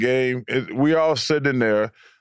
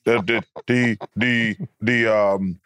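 lower-pitched New York accent imitation; mock New York ballplayer, halting; Kenny Smith; 4 semitones lower than usual. Shown as a demonstration. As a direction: drop low and stumble over the boast. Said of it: "How about Kenny?".

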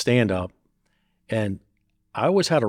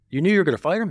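higher, disbelieving question; incredulous; 9 semitones higher, 4 dB louder, faster than usual. Retold or imitated. Angry friend confronting Sonny after the fight, incredulous. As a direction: challenge it as if you can't believe it.

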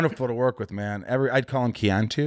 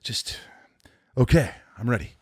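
retold self-soothing actor; 2 semitones lower, 6 dB quieter than usual. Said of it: "He's like".

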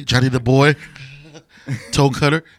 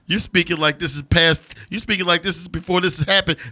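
higher, fast, hammed-up villain rant; mock villain rant; 5 semitones higher than usual. Co-host imitating the villain scolding the hero. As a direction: rant like a smug movie villain.

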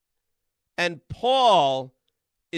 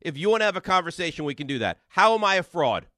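raised voice; 2 semitones higher than usual. Real, not acted. Host to rude caller, raising his voice. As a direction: talk him down, firm and forceful. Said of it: "I'm yelling".

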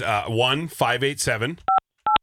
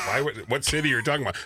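puzzled receptionist; faster than usual. Retold or imitated. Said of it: "She's like".

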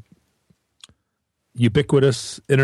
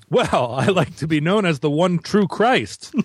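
higher, grand prophet proclamation; mock messiah; 5 semitones higher than usual. Guest mock-proclaiming himself to the host, pompous. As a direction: proclaim yourself the saviour, tongue in cheek.

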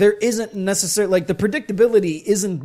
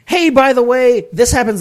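loud, higher mock aside; exaggerated, raised-voice quote; mock announcement; 5 semitones higher, 6 dB louder than usual. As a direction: call it out like a sudden plot dump. Mock quote of rushed plot.

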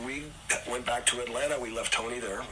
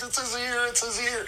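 crying; 12 semitones higher than usual. Retold or imitated. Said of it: "And he's crying".

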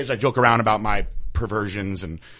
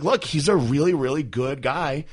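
scolding mom; 5 semitones higher, 4 dB louder than usual. Retold or imitated. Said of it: "And I was like".

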